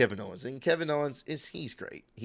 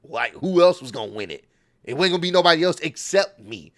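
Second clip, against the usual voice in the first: imitating a cocky, mocking taunt at the crowd; mock the doubters like a smug heel; a hammed-up smug wrestling villain gloating; 2 semitones higher, 3 dB louder than usual. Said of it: "she's kinda playing up the heat".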